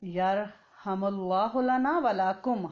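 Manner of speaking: very slow recitation. Shown as a demonstration. Teacher dictates the sneezer's reply for students to memorise. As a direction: spell out یرحم اللہ لنا ولکم slowly like a dictation. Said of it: "اس نے کیا کہنا ہے؟".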